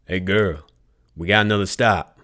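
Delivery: calling loudly down the hall; yelling. Acted. Tobias calling down the hall for Red, loud call. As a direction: raise the voice to carry down the hall. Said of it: "and yelled for Red".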